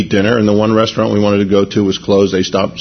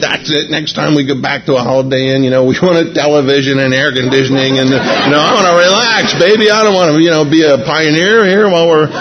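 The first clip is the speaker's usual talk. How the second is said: higher, worked-up mock complaint; retold grumbling; 4 semitones higher than usual. Husband fed up with the old bed and breakfast, grumbling. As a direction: grumble with the pitch climbing. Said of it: "we're sorry for grumbling".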